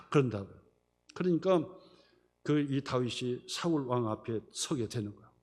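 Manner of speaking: ordinary delivery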